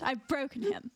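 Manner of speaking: amused posh British remark; posh British accent. Pretend. Streamer telling chat about helpless friend, posh British accent. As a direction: report it in proper British English. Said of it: "posh British accent".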